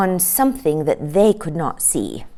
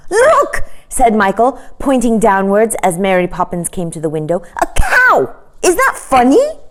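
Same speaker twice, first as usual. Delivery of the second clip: put-on high, eager childlike voice; excited boy; 4 semitones higher, 4 dB louder than usual. Michael shows Mary Poppins the cow, high and eager. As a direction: point and call out like a thrilled boy.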